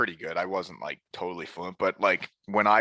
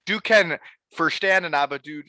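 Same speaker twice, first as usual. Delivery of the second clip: mock broken German; 6 semitones higher than usual. Mocking how Germans talk to him.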